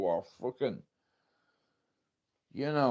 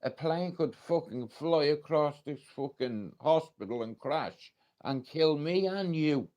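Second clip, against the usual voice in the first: retold blunt woman; 5 semitones higher, 5 dB louder than usual. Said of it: "She said".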